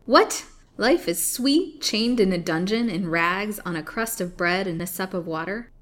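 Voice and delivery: mock the prisoner's plea; incredulous scorn. Hag mocks prisoner's plea.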